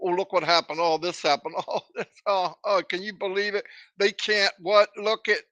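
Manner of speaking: lightly voiced gossiping critics; mocking nitpickers. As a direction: sneer like a gossip spotting flaws. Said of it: "all the people that fine tooth comb".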